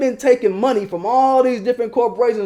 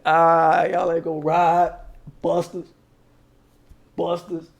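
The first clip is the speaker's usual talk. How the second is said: laughing scoff; 4 semitones lower, slower than usual. Retold or imitated. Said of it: "I'm just laughing like".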